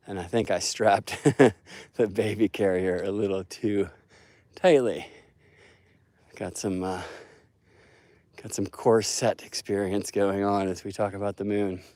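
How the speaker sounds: breathless from the steep hill; puffing between phrases; out of breath. Real, not acted. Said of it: "I'm walking up a steep hill".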